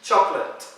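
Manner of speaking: "chocolate" as a crisp CHOK-lut; correct pronunciation. Shown as a demonstration. Teacher asking learners to listen, correctly pronounced. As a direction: say "chocolate" in two syllables, no middle O.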